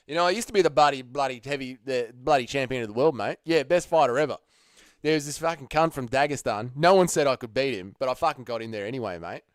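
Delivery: hammed-up Aussie fighter brag; playing up the Aussie accent; thick Aussie accent. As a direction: lay on a broad Australian accent. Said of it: "gotta stop with the Aussie accent".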